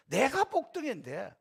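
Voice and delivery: 내가 복등인데 said slowly and proudly, rising at the end; proud declaration. Shown as a demonstration. Pastor modelling self-esteem for believers, a slow proud 내가 복등인데. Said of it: "이런 자긍심, 자존감이 있어야 돼요".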